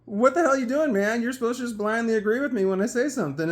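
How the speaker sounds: loud, high mock outrage; retold angry scolding. Boyfriend scolding his buddy for not agreeing, mock angry outburst. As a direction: imitate an exasperated ringleader.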